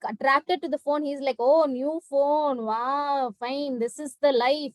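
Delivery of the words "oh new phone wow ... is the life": mock delight. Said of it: "he thought".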